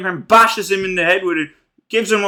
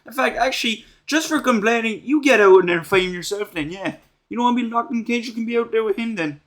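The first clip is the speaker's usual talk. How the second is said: higher, scornful mock telling-off; hammed-up scornful rant, higher pitch; 4 semitones higher than usual. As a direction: sneer it at her like a fed-up bully. Mock rant at crying Alison.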